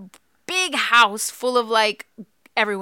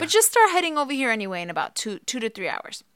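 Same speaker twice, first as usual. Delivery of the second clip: midwife on the phone. Retold or imitated. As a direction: mimic the midwife brushing it off. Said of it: "And she's like".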